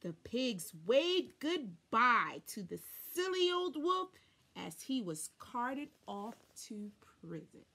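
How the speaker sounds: ordinary delivery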